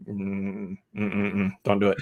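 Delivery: low, hushed warning; Agnes. Retold or imitated. Agnes secretly warns her neighbor to hush, softly. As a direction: murmur it softly under the breath. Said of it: "Agnes looking at, at her going".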